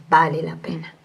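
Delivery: the Spirit speaking to María, whispered. Retold or imitated. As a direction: hush the words to a breath. Spirit's words repeated, whispered.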